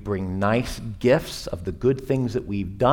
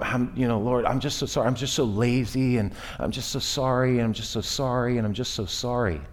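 softer, repetitive hammed-up pleading; mock groveling apology; 4 dB quieter, faster than usual. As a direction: beg forgiveness over and over, half-mocking.

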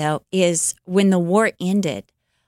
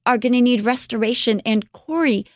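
higher, earnest voice for Betsy; a sister's bright hopeful vision, voiced higher; Betsy's vision; 4 semitones higher than usual. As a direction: lift the voice as the hopeful sister describing her vision.

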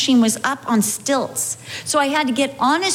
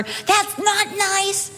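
slow, higher prim complaint; prim sing-song; 8 semitones higher, much slower than usual. Retold or imitated. Pastor's wife mocking her own prim complaint, slow sing-song. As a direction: drag it out primly. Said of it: "I was not going".

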